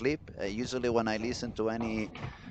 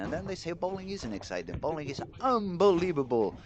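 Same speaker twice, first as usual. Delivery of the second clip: higher, moved and excited; emotional; 5 semitones higher than usual. Real, not acted. Commentator moved by Nora's comeback, emotional and higher. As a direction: let the feeling lift your voice. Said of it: "Wow, I'm getting emotional here".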